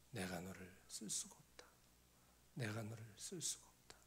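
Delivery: low, hushed, sorrowful voice of God; imitated divine lament, low and weighty; sad, heavy voice. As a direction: grieve it softly, almost whispered. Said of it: "이 슬픈 목소리가 들리는 거예요".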